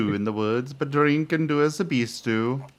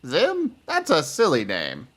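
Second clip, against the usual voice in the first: mocking child.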